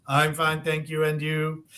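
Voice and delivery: mechanical, flat rote answer; robot voice. Retold or imitated. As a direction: recite like a robot. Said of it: "You sound like a robot".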